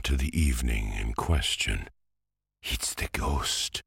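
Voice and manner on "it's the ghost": frightened cry. A narrator's reading. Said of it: "little Jamais had cried".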